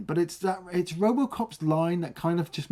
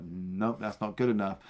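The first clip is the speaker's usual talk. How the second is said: lightly voiced old man, softer; dismissive old man; 6 semitones lower, 7 dB quieter than usual. Old man brushing off the lawyer, softly. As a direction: mutter a dry refusal like the old boss. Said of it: "the old man's like".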